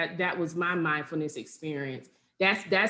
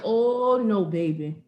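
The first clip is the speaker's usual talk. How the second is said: firm self-talk. Retold or imitated. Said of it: "I said".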